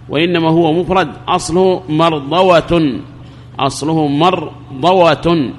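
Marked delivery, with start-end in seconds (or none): 1.3-5.5 مرضوة said slowly, each syllable drawn out; slow spelled-out demo. Shown as a demonstration. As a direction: dictate مرضوة slowly for students. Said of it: "تحركت الواو وتحرك ما قبلها". (نطق بطيء موضح لكلمة مرضوة)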